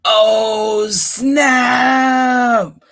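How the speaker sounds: high, loud squeaky yell. Acted. Mister Mouse yells as the tusk breaks. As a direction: shriek it like a panicked mouse. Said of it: "Mister Mouse yelled".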